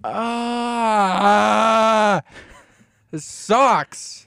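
whiny. Real, not acted. Bummed about missing party.

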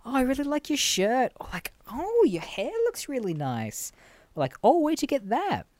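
mock-sweet come-on; imitating a flirty charity fundraiser. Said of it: "being like".

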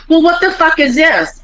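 high, incredulous mom voice; imitating baffled mom. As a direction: mimic mom's confused outburst. Mom baffled by toll lane.

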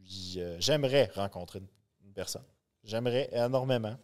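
muffled behind a Batman mask; through a face mask. Real, not acted. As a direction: speak through a costume mask. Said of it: "ça fait spécial de parler avec le masque". (voix étouffée par le masque)

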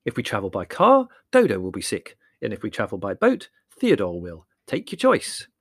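loud, emphatic either-or; sarcastic exasperation; exasperated. Acted. Larry sums up in exasperation.

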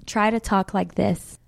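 British accent demo. Shown as a demonstration. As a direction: model the phrase in a British accent. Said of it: "You wanna try? Say".

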